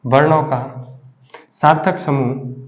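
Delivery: सार्थक समूह said slowly, word by word; teacher pacing सार्थक समूह so the class can note it down; slow dictation. Shown as a demonstration. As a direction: spell out सार्थक समूह slowly for students to write. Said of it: "वर्णों का, repeated for dictation".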